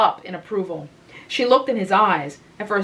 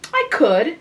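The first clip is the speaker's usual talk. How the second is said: harder; 8 semitones higher, 4 dB louder than usual. A narrator's reading. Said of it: "she added harder".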